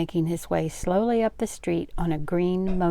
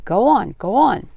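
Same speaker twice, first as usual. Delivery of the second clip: loud, higher, urgent command; rising toward a scream; 4 semitones higher, 7 dB louder than usual. A narrator's reading. Aunt on the scooter telling Frank to start, rising urgency. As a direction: urge it on with mounting alarm. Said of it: "Her words rose into a piercing scream".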